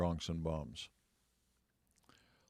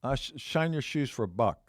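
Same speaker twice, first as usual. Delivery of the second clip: lightly voiced street kid, pitched up; a hint of a higher, boyish hawker; young shoeshine kid; 5 semitones higher than usual. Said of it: "this young black kid comes up to me".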